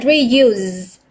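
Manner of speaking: reuse, drawn out slowly with a long ee; long ee sound. Shown as a demonstration. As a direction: stretch the ee in reuse, teacher demo. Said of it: "âm y dài". (đọc chậm reuse với âm i dài)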